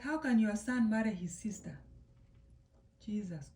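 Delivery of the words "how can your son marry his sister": loud, acted-out outrage; shocked confrontation. Mother confronting the dad about the siblings' wedding, outraged. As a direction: challenge him in mock disbelief, louder.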